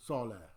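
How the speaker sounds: "Salah" said as "saw-la" with a full S; "Salah" with a clear S at the start; correcting himself to "Salah" sounded saw-la; corrected Salah. Shown as a demonstration. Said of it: "So I have to recorrect myself".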